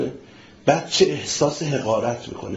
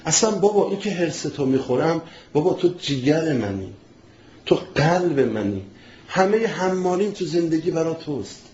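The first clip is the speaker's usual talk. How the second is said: tender father. Shown as a demonstration. Preacher showing a father gently talking to his son, tender. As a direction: win the son over with love. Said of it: "یه جور دیگه خیلی زیباتر".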